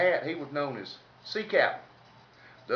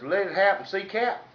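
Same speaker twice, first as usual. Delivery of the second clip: cocky call; 5 semitones higher, 3 dB louder than usual. Retold or imitated. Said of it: "darn Ski Daddy says".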